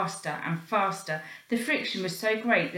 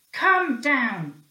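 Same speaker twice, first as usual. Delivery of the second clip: loud, higher call; shout; 5 semitones higher, 7 dB louder than usual. Acted. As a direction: yell up the stairwell. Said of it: "shouted the porter".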